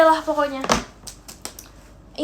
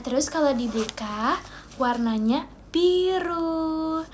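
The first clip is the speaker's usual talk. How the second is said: slow, careful word by word; talking slowly; much slower than usual. Shown as a demonstration. Vlogger slows down so she stops tripping on words. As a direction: drag each word out so none slips. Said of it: "ngomongnya pelan-pelan aja ya".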